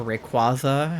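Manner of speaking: Rayquaza with an open "ah" middle; alternate pronunciation of Rayquaza. Shown as a demonstration. Streamer unsure of the name, offering Rayquaza as ray-KWAH-za. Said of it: "however we're supposed to pronounce it".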